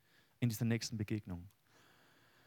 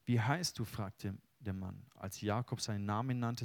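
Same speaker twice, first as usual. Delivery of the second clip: solemn reading of the Jakob story; scripture reading. Acted. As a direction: read the passage with weight, unhurried. Reads Bible passage aloud.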